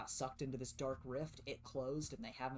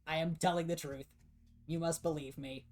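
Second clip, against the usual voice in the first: higher, louder pleading robot; insistent robot voice; 4 semitones higher, 8 dB louder than usual. Acted. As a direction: protest like a machine that must be believed. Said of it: "The other guy's like".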